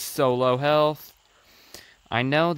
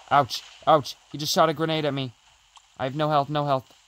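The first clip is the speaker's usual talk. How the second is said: panicking gamer; 3 semitones higher, faster than usual. Real, not acted. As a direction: panic as the health runs out. Low health, under fire.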